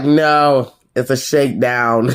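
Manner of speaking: flat, knowing verdict; lightly voiced Erica; imitating Erica's voice. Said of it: "Erica be killing me with her voice".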